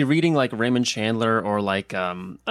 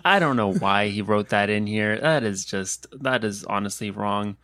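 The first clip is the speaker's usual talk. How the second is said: sheepish, slow apologizing book; apologetic; slower than usual. Pretend. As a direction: mumble sorry like an embarrassed book. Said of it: "just really apologetic".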